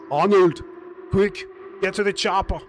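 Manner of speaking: Arnold voice changer. Pretend. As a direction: voice changer filter on. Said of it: "I think my voice changer is still on".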